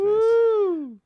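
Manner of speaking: sudden high loud whoop; excited whoop. Real, not acted. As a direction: cheer it out with a jump in pitch. Excited cheer at job news.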